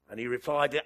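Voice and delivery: usual speaking voice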